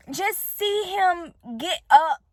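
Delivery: slow, real cry in the voice; tearful. Real, not acted. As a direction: push the words out slowly through tears. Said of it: "I don't even cry in front of people".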